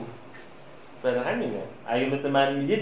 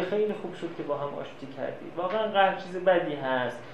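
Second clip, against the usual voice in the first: sly peacemaker; 7 dB quieter than usual. Acted. Meddling go-between phones the reconciled man, softly sly. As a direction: sweetly remind him of the quarrel, barely above a murmur.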